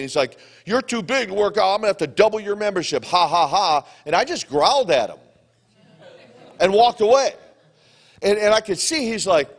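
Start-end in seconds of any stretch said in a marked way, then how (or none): 0.7-3.9 quick mock banter with a spoken ha-ha-ha; retold joking. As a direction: imitate a gym owner's teasing, a bit higher. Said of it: "he's joking".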